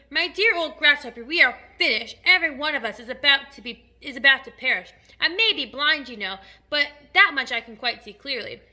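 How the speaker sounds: loud, emphatic doom-saying; despairing cry. A narrator's reading. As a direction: proclaim that all is lost. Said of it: "cried the earthworm".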